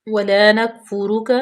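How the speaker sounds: slow Quran recitation, each sound clear. Shown as a demonstration. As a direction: recite it slowly and carefully. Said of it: "teacher models recitation". (آہستہ تجوید کے ساتھ)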